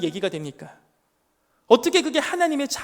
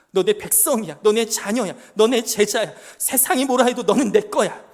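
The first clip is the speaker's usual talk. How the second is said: rising declaration; 6 dB louder than usual. Acted. God declaring ownership, building.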